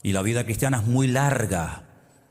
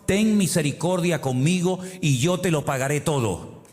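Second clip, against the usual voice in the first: pleading servant; 4 semitones higher than usual. Retold or imitated. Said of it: "le suplicaba diciendo".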